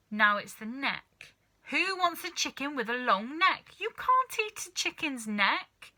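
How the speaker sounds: high, rising complaint voice; a fussy wife's whine; grumbling wife. A narrator's reading. Missus Cranky complaining about the long neck, high whine.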